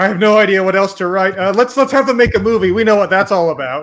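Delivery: hammed-up frantic writer voice; exasperated writers. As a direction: play a writer out of ideas. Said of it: "the writers are sitting there like".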